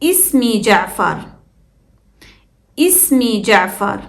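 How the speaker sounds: اسمي begun with a clear i vowel; initial hamza pronounced. Shown as a demonstration. Teacher shows learners اسمي at sentence start, hamza pronounced. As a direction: sound the opening hamza of اسمي. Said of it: "At the start".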